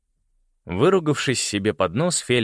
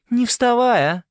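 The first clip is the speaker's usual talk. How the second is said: much higher, loud alarmed call; urgent cry; 8 dB louder than usual. A narrator's reading. Winter crying out as Simon stumbles. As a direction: stop him, urgently. Winter stops him falling.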